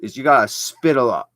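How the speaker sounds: mock Scottish demo. Shown as a demonstration. Explaining to Skylar why the Scottish accent is hard, mock Scottish. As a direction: show how the Scots spit their consonants. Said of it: "wasn't actually trying to do the Scottish accent".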